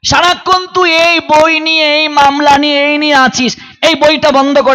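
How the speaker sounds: mock-stern mother nagging her grown son; mother scolding. Mother scolds her judge son over his books, lightly voiced stern. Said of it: "মা এসে শাসন করছে".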